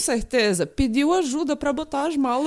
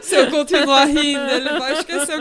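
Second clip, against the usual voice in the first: laughing. Real, not acted. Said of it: "laughing through words".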